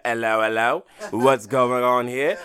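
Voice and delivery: drawn-out mock come-on; playful impression of a man on the make; flirting dude. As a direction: lightly imitate an interested dude, stretching the words. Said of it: "Some other dude might be like".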